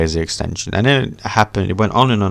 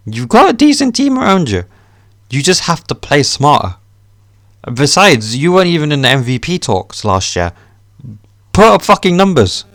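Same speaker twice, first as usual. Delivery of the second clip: higher, louder lecturing shout; loud rant; 7 semitones higher, 5 dB louder than usual. Real, not acted. Fan yelling at KD to just play better, loud and high. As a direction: bark advice at him. Ranting at KD to perform.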